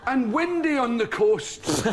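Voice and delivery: slow, drawn-out weather forecast voice; mock weatherman. The comedian mocking a TV weatherman, slow and solemn. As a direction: mimic a dull weatherman, stretching it out. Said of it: "he says".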